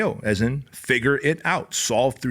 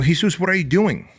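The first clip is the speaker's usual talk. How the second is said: startled, raised question; surprised; 7 semitones higher, 4 dB louder than usual. Retold or imitated. Coach finding the trainee at the door, surprised. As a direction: ask in disbelief, higher and louder. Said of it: "So I go".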